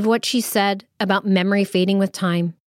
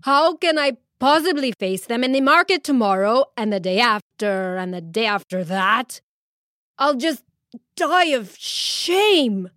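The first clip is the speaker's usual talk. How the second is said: wailing in shame; 3 semitones higher than usual. Acted. Husband bemoans facing the market, mild wailing despair. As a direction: drag out the dying of shame. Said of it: "he wailed".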